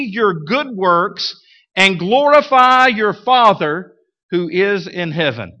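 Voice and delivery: measured, solemn Bible reading; scripture reading. Acted. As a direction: read it out with gravity. Reads scripture aloud.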